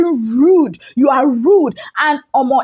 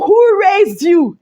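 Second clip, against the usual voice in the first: mock angry retort; 6 semitones higher, 4 dB louder, much slower than usual. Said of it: "Fina was like".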